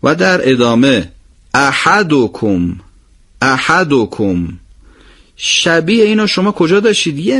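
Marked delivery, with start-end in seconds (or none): 1.5-4.5 slow, syllables of احدکم spaced out; slow recitation. Shown as a demonstration. (احدکم آهسته و شمرده)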